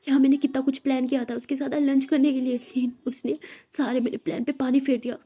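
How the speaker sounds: loud, frustrated boss venting; angry yelling. A narrator's reading. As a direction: rant loudly in jealous frustration. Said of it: "boss चिल्लाते". (गुस्से में ज़ोर से बोलती हुई)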